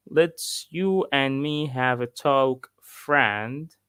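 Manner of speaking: slow, mildly sarcastic quote; sarcastic dad. Retold or imitated. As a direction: lightly imitate a dad's mock-friendly warning. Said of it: "he was being sarcastic".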